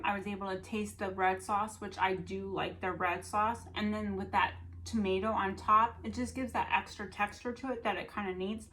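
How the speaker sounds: talking through a mouthful; cheeks stuffed full. Real, not acted. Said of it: "So I'm talking with my mouth full of food".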